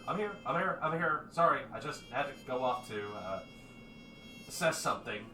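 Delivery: out of the dark, eager to explain; hurried reply. Acted. Carvis apologising to the group, a bit flustered.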